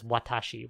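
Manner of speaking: "watashi" said softly as wa-ta-shi, neutral Japanese pronoun; わたし、普通の発音で. Shown as a demonstration. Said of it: "she doesn't use that. She says".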